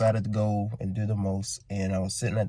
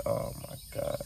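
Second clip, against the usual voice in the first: whispered; 10 dB quieter than usual. Retold or imitated. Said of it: "I said".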